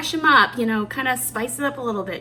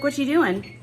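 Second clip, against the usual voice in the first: higher, louder mock yell as the oven; mock oven scream; 6 semitones higher, 7 dB louder than usual. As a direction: yell like a nagging appliance. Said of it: "She screams at you".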